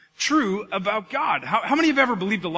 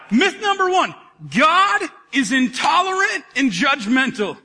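loud, high announcement to the room; emphatic announcing; 5 semitones higher, 5 dB louder, slower than usual. Real, not acted. Preacher announcing the first myth to the congregation, loud and emphatic. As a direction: proclaim it loudly, pitched up.

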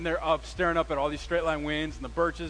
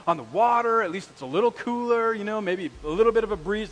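higher, griping at the scouts; a hint of exasperated anger; mock annoyed rant; 5 semitones higher, 4 dB louder than usual. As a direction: complain like a fed-up counselor. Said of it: "I was getting mad".

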